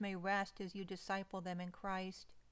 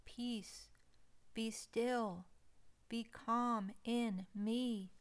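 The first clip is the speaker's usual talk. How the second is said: slow, calm reassurance; much slower than usual. Acted. Voicing Jesus calming the listener.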